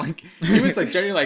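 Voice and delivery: cracking up mid-sentence; laughing while talking. Real, not acted. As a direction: giggle through it.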